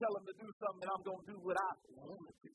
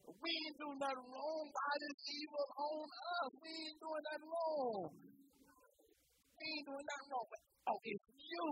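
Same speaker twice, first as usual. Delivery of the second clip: pleading sailors; 5 semitones higher than usual. Acted. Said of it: "they said unto him".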